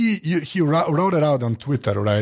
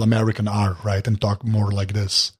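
light American accent with pronounced R's; attempted American accent; 4 semitones lower than usual. Shown as a demonstration. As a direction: try talking American, leaning on the R. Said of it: "I could pronounce the".

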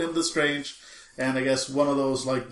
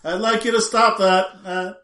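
mock echo; 4 semitones higher, 6 dB louder than usual. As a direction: imitate the last sound echoing off. Acted echoing reply in the void.

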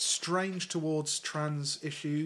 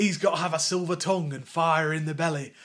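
lightly put-on Lancashire voice; Burnley accent; 4 dB louder than usual. Paraphrasing the quoted interviewee on Corbyn, Lancashire accent. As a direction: imitate a Northern English interviewee. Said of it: "he wrote it in a Lancashire accent".

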